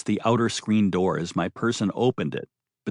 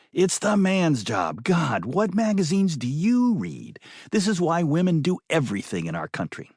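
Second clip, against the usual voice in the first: higher, exasperated woman's voice; 5 semitones higher than usual. Acted. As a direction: roll your eyes as you say it.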